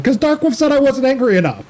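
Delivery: high-pitched, exasperated protest; worked-up, hammed-up self-defence; mock mad. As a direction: protest indignantly, voice pushed way up. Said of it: "Why are you so mad?".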